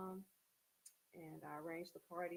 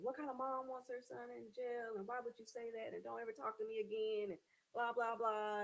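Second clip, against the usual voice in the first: high, loud angry reproach; mock the son's furious complaint; upset son; 6 semitones higher, 5 dB louder than usual. Son angrily scolding his mother on the phone. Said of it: "he was upset with me".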